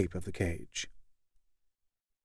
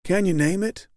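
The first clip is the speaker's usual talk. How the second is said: high, blandly kind leader; 7 semitones higher than usual. A narrator's reading. Group leader gently affirms weeping Kevin, high and blandly kind. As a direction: soothe him like a patient therapist talking to a child. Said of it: "very blandly and kindly".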